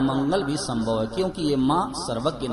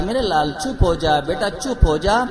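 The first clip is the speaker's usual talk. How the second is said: put-on a mother coaxing her baby, a bit louder; mild, louder coaxing of a crying child; 2 semitones higher, 5 dB louder than usual. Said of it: "माँ ने फिर पुचकारा". (बच्चे को पुचकारती माँ, थोड़ा ऊँचा स्वर)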